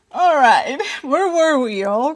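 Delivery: high and loud, still buzzing; trying to settle but still thrilled; real leftover excitement; still excited. Real, not acted. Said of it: "I need to calm down".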